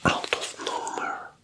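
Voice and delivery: slow, hushed whisper; whispered storytelling. A narrator's reading. Storyteller introduces the wolf out of nowhere, slow whisper. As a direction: whisper the tale slowly.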